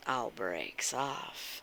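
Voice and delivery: drawn-out low tease; teasing chat with mischief; low slow tease. Real, not acted. Teasing after-stream promise.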